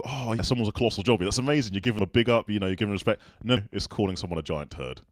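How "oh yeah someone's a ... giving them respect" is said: raised-pitch, mistaken enthusiasm; imitated admiration. Guest retelling his mistaken first reaction, admiring. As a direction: sound impressed, pitched up. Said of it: "I thought the same as you".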